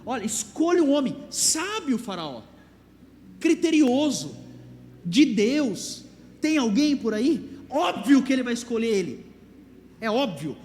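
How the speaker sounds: Joseph persuading Pharaoh, loud and emphatic; dramatic Joseph. Acted. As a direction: act out the scripture with feeling. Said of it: "Você tem que pôr uma entonação na Bíblia".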